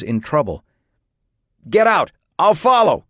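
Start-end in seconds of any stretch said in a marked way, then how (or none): 1.7-3.0 loud, high yelled order; raised, pressing shout; urgent shout. A narrator's reading. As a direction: urge him out of the smoke. Urgent shout in smoke-filled trailer.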